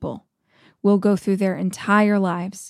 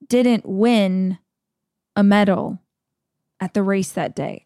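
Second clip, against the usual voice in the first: slow Morgan Freeman narration. Retold or imitated. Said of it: "and he's like".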